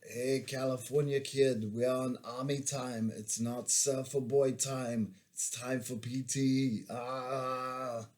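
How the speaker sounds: calling a bunkmate awake with a mock Austrian accent; Arnold Schwarzenegger. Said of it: "I yelled in my best Arnold Schwarzenegger".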